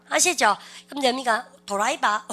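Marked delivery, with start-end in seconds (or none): 1.7-2.2 "드라이버" as Daegu-style do-ra-i-ba; Daegu dialect. Shown as a demonstration. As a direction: joke Daegu pronunciation. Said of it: "그거는 대구 말이고". (대구 말투로 '도라이바')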